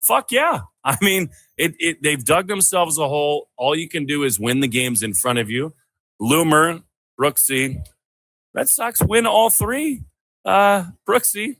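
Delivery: high-pitched, fired-up celebration; excited sports-fan hype. Real, not acted. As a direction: celebrate the win in excited bursts. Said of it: "'Cause you're very excited".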